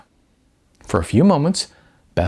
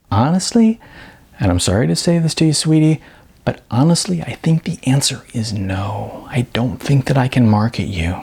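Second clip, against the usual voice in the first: lightly raised, brisk agent's voice; blunt talent agent; 4 semitones higher than usual. Acted. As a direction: deliver the bad news sweetly but bluntly. Beth the agent speaks.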